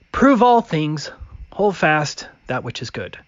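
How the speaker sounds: usual speaking voice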